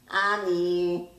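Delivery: put-on high, loud little girl call; toddler calling. A narrator's reading. Little sister tugs at her brother's sweater, calling.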